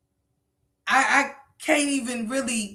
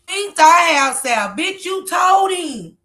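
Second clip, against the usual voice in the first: angry shout; 5 semitones higher, 6 dB louder, slower than usual. Real, not acted. Shouting reaction at the call.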